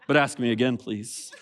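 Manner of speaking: mock-sulky plea with a laugh; laughing sulky aside. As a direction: beg to be asked again, half-laughing. Passive aggressive aside.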